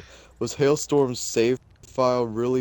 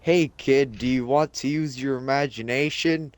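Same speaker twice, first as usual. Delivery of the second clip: cheerful NPC voice; 4 semitones higher than usual. Acted. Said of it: "His dialogue was simply".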